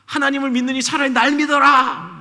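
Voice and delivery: preacher lightly voicing Goliath mocking God; mocking giant's cry. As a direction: jeer at the crowd in a hammed-up voice. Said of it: "막 외치기 시작했어요".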